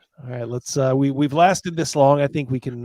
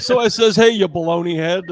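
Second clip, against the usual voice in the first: higher, louder cartoon oaf impression; Homer Simpson; 3 semitones higher, 7 dB louder than usual. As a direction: bellow it like a dopey cartoon dad. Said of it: "He's like Homer Simpson".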